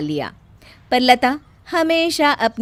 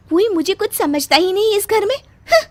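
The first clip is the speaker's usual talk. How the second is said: higher, crying complaint; tearful self-pity; 11 semitones higher, 4 dB louder than usual. Acted. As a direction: sob to herself. Bride alone, hurt.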